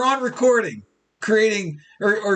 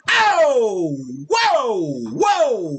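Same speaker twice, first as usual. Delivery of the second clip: cracking up; 3 semitones higher, much slower than usual. Real, not acted. Laughing at his own joke.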